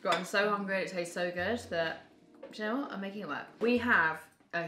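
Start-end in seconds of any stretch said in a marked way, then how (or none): 0.0-3.5 talking through a mouthful of bread; chewing while talking. Real, not acted. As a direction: mouth full, words around the chewing. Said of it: "Excuse me eating literally a loaf of bread".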